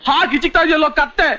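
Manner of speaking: high-pitched, irritated complaint; pained scolding. Acted. Injured patient scolding a clumsy helper, pained and cross.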